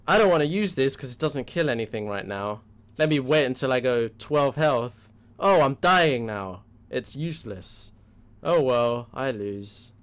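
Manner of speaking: loud, whining, slowing player voice; whiny. Retold or imitated. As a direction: whine it like a sore loser. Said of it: "That sounds like the whiny version".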